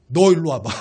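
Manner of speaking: low, controlled mock threat; retold anger. Preacher replaying the moment he lost control, low threat. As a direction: act out a low-pitched challenge. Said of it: "이성의 끈이 딱 놓여진 거예요".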